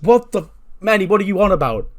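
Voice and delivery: high, loud disbelief; baffled outburst. Acted. Dio reacting to his friend's odd confession, baffled and loud. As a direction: exclaim in acted bewilderment.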